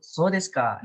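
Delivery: "so desu ka" lifted at the end; rising question tune. Shown as a demonstration. Teacher shows the class the example, rising intonation. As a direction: let "ka" rise in "so desu ka". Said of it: "so desu ka itu naik".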